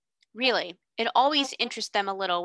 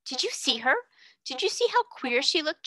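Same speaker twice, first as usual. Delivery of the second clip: excited outburst; 6 semitones higher than usual. A narrator's reading. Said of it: "Jessie broke out".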